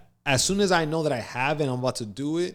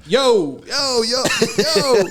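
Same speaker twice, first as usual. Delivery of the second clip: high, loud repeated calls; imitated panicked hailing; retold alarmed calling; 10 semitones higher, 7 dB louder, much slower than usual. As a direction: call out to rouse someone, acted. Retold alarm at passed-out training partner.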